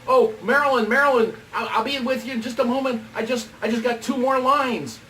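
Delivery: eager, urgent calling; retold yell. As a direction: yell down the hall, pleading for time. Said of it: "so I yell out".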